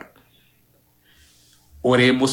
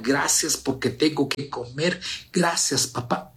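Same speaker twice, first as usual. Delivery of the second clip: soft intimate prayer; 3 semitones higher than usual. Shown as a demonstration. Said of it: "háblele a Dios despacio".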